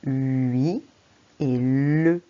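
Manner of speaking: hui, then le, split apart; syllables spelled out. Shown as a demonstration. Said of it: "j'ai besoin de deux syllabes".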